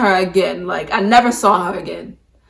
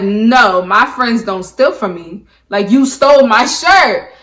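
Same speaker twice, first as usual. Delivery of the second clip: louder and slow, firm accusation; retold accusation; 5 dB louder, slower than usual. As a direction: lay it down slowly and loud: you stole it. Accusing friend of stealing.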